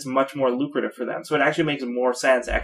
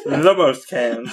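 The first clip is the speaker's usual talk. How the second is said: slow words through laughter; laughing; much slower than usual. Real, not acted. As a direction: chuckle through it. Laughing comment.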